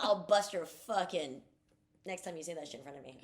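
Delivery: mock threat. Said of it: "That's what I'd be like".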